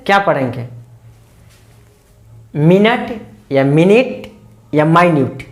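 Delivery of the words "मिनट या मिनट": "मिनट" said slowly, first as "minət", then as "minit"; two ways to say minute. Shown as a demonstration. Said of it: "इसका उच्चारण".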